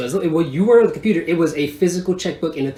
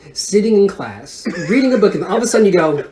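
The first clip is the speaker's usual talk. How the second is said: normal talking voice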